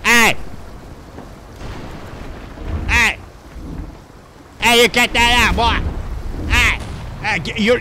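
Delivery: high, sharp hollering; indignant calling out. Real, not acted. Yelling at someone in game.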